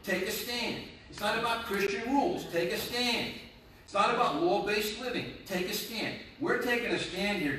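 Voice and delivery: rally them with each repeated phrase; exhorting preaching. Acted. Pastor urges church to take a stand, exhorting preaching.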